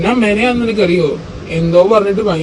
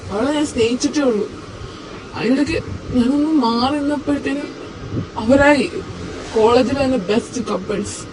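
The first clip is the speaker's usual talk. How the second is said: tearful; 4 semitones higher, 4 dB quieter than usual. Acted. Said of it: "നീ കരയാണോ?".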